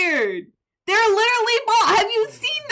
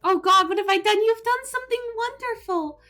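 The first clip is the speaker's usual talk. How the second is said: high, sweet angelic voice held throughout; angel mode voice; 2 semitones higher than usual. Acted. Streamer to chat, sweetly in a high angel voice. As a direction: play a beautiful, kind angel. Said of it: "talk in my beautiful, angelic, high-pitched voice".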